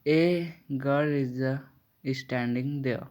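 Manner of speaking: put-on a girl said slowly with a short a; slow teaching read, a kept short; demo of a sound. Shown as a demonstration. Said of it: "ए का". (a को छोटा रखकर धीरे पढ़िए)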